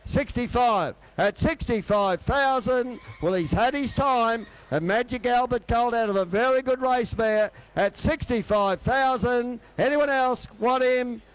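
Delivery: fast rhythmic auctioneer bid calling; frantic trading floor shouting. Acted. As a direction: rattle off the bids like an auctioneer.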